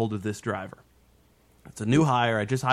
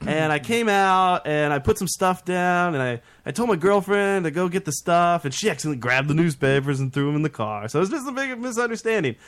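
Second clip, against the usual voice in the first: higher-pitched imitation of an innocent explanation; excuse-making driver; 5 semitones higher than usual. Caught driver explains away the newspapers, imitated innocence. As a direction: lightly mimic someone talking their way out.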